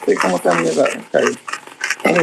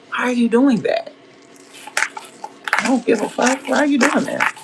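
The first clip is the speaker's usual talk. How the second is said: high-pitched scolding; 9 semitones higher than usual. Real, not acted. Yelling at misbehaving kid.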